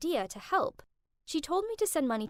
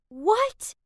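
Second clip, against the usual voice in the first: shocked; 9 semitones higher, 6 dB louder than usual. Acted. Overhearing daughter-in-law news.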